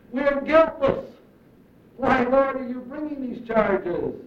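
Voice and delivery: acted indignation, easing toward the end; mock protest. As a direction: protest as the wrongly accused. Acting out the people's protest to God.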